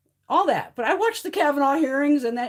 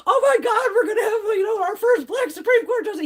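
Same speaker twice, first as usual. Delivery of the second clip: high, loud, laughing and choking up; imitating Cory Booker's overjoyed outburst; excited; 9 semitones higher, 5 dB louder than usual. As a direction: gush with overjoyed tearful excitement. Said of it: "he was so fucking excited".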